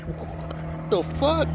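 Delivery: high, slow, stretched-out disbelief; shocked. Retold or imitated. Reacting to the neighbor's stolen stash, high and shocked. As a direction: draw it out in shock.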